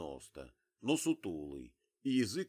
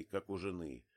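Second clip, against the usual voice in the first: ordinary delivery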